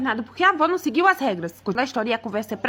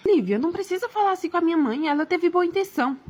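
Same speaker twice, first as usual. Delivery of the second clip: higher-pitched defensive husband; protesting husband; 4 semitones higher than usual. Acted. Husband defends his mother to wife, protesting.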